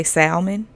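salmon with an audible L, SAL-mun; L pronounced in salmon. Real, not acted. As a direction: sound the L in "salmon". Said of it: "it's a fucking L in it".

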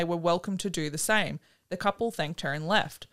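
measured true-crime storytelling read; story narration. A narrator's reading. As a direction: read the scripted account evenly. Reads the prepared story.

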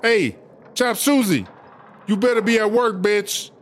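threatening call-out. Acted. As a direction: call them out with a warning. Calling out a threat to someone.

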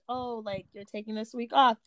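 implied guilt trip. Retold or imitated. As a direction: let the guilt trip show under the words. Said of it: "it sounds like more of".

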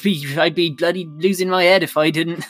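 broad West Country yokel, chatty and rambling; a rustic West Country beekeeper voice; West Country accent. Acted. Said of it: "really love your West Country accent there".

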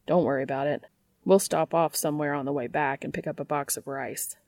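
lightly voiced Dean. Dean offering Cass the heater and jeans, lightly voiced. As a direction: Dean played down, covering his feelings.

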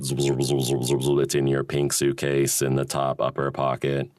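flat robot voice locating things. Pretend. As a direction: say it like a scanning robot. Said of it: "talk like a robot".

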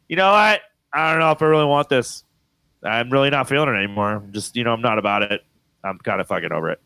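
lightly imitated Valley Girl, over it; a hint of blasé Valley Girl kid. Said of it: "sound like a Valley Girl".

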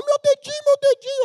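put-on very high whimpering child voice; whiny little girl. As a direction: imitate a small girl crying about her finger. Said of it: "Ela tava".

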